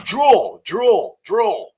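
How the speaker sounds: high, loud sing-song drool, drool, drool; mock drooling. Streamer mocking Tate's fans, high and loud teasing. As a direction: taunt like a kid mimicking slobbering fans.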